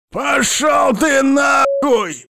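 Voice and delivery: very high, slow, loud spluttering yell; furious shout. A narrator's reading. Captive spitting petrol and yelling at Abram. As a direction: scream defiance while spitting fuel. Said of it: "орёт Ашот".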